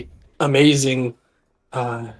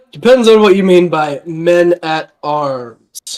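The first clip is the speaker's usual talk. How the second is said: knowing; 3 dB louder, slower than usual. Acted. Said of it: "he kinda laughs a little bit".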